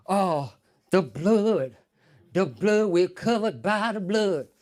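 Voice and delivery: slow, drawn-out preaching; mock preacher calling the church; preacher's call. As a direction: preach it slowly.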